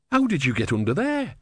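put-on simple, wide-eyed young monk; naive young novice. Brother speaks to tortoise.

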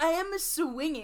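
laughing while repeating the line; laughing echo. Real, not acted.

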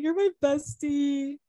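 sincere and slow with a catch in the voice; tender, teary. Real, not acted. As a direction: say it to your best friend as you tear up. Getting emotional about friendship.

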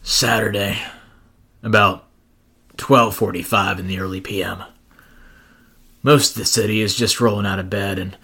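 world-weary noir cab driver narration; a lightly voiced gritty cabbie, deadpan; jaded cab driver. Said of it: "my jaded cab driver voice going".

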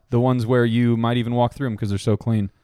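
steady sponsor-read delivery. Real, not acted. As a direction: pitch it like a podcast sponsor spot. Continues the sponsor spot.

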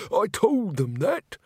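high, peeved whine; annoyed. A narrator's reading. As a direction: complain that your story is being stolen. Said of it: "in a rather annoyed voice".

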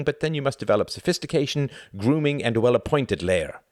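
lecturing friend, lilting up high in places; lightly voiced older bachelor, amused. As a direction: advise a younger man with mock gravity. Older friend advises Tom.

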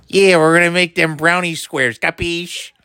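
hint of a chirpy TV cook; Rachel Ray impression. Mocking a TV chef making brownies, lightly voiced. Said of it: "what she sounds like to me".

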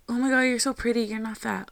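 high-pitched imitation of a reassuring friend; gushing friend. Friends reassuring her about her looks, mock gushing.

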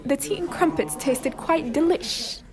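put-on slow, amateur British accent. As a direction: have a drawn-out go at sounding British. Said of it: "let's start simple with British accents".

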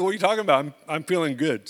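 incredulous laugh through the words; laughing disbelief. Retold or imitated. Retelling to wife, laughing in disbelief.

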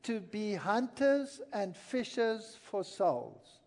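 drawn out for emphasis; slow and weighty. Acted. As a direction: stretch each word out. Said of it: "What is the aim".

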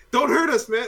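mock pleading criminal. Criminals begging.

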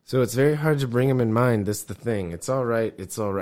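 lightly imitated Glasgow mumble; Glaswegian accent. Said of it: "Whoa! I believe that immediately".

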